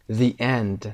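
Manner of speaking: THE as "thee", with a long ee, before END; THE said as dee. Shown as a demonstration. Teacher shows THE before a vowel sound, said as "thee". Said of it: "صدای دی داریم اینجا".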